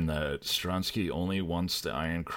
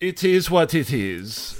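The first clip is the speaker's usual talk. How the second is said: high, slow, louder mock shrug; mock resignation; 11 semitones higher, 9 dB louder, slower than usual. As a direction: draw it out as a pitched-up shrug. Acting out Steiner's shrugging reply.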